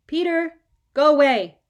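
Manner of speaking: loud, sulky shout through the door; furious kid yelling; angry shout. A narrator's reading. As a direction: yell at Dad to go away. Angry boy shouts at father.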